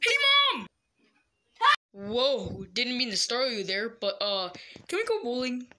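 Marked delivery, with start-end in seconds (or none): 0.0-0.7 loud high call across the house. Acted. Boy calling out to his mom, loud and high. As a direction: shout for Mom to come over.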